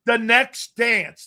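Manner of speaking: movie trailer voice. Pretend. Announcing mock documentary title.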